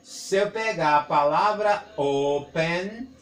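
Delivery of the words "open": "open" stretched out, rising at the end; demonstrative reading. Shown as a demonstration. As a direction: draw out both syllables of "open". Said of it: "na minha leitura".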